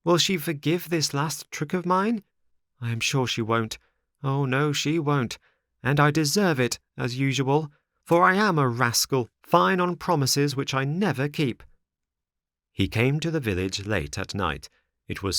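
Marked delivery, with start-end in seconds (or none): 0.0-11.6 higher-pitched, self-reproaching puppet; fretful marionette. Acted. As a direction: voice a worried puppet scolding himself. Figure of Pinocchio frets to himself.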